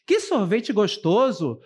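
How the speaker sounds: pleased exclamation about the ice cream; exclamative intonation. Shown as a demonstration. Teacher demonstrating exclamation to the class, pleased and lively. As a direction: say it like you're delighted with the taste. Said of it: "essa entonação traz uma conotação positiva".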